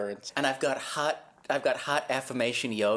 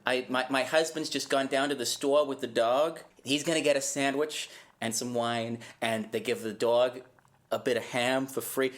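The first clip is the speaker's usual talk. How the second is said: put-on Massachusetts accent. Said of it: "You sound like you're from Massachusetts".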